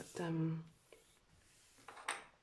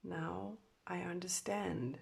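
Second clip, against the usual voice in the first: breathy whispered realization; 6 dB quieter, slower than usual. Acted. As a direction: whisper it slowly. Whispered channeled message.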